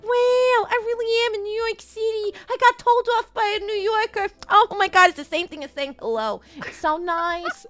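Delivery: high mock-delighted gush; starstruck tourist. Podcaster playing a thrilled tourist in New York, high gushing. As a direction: swoon at being told off. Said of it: "They're like".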